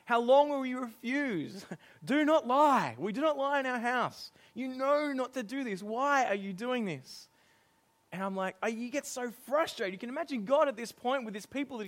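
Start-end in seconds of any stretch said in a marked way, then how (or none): 0.1-7.3 higher, louder exasperated telling-off; a fed-up parent lecturing the kids on lying; scolding parent. Retold or imitated. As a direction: tell off a lying child. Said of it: "I've said that line".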